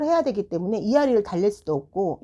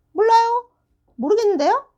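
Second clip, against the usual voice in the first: high-pitched, louder imitation of a balking child; mock defiant pupil; 6 dB louder than usual. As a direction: talk back like a kid pleading ignorance. 학생의 퉁명스러운 대답을 흉내. (모르쇠로 버티는 아이 흉내)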